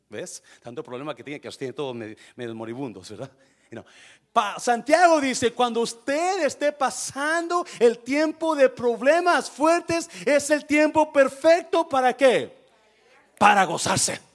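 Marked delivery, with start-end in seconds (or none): 4.3-14.2 predicación muy fuerte y aguda; prédica a todo pulmón. Acted. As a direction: proclama el mensaje con toda la fuerza. (sermón encendido a viva voz)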